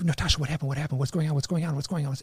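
mild panic in rapid repeated questions; retold freak-out. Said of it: "I'm, like, freaking out".

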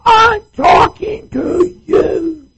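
high, loud, slow shout; hammed-up yelling at the wife. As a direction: bellow across the house. Yelling husband example.

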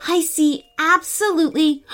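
put-on high, light cat girl voice; cat answering the boy, in a high voice. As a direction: talk like a perky cat. Cat Lola's voice.

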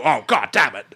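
imitating a posh upper-class accent; mock continental, upper-class accent; affected Frasier voice. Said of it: "He wouldn't go".

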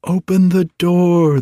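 high-pitched, urgent plea; storybook begging, pitched well up; imploring. A narrator's reading. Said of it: "they implored".

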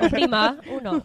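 mock Spanish menu through a laugh; laughing phone menu voice. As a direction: giggle out the menu option. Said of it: "if she said it like in Spanish".

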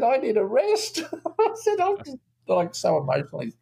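a hammed-up emotional wreck in a high voice; mock worn-out sigh. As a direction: play yourself overcome and drained, half joking. Director retells his own drained reaction.

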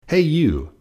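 loud, high challenging call; grouchy call. A narrator's reading. Grouchy ladybug challenges an animal.

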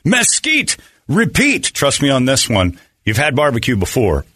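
punchy podcast sponsor read; radio-style plug for a local sponsor. Acted. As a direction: sell it with big punches on the key words. Reads a sponsor ad.

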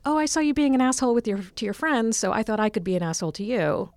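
mock chirpy troll logic; imitated online commenter.

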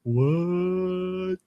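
slow, high dopey dog voice; dog's inner voice. Pretend. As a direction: drawl it like a dim dog. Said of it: "I just wanna go like".

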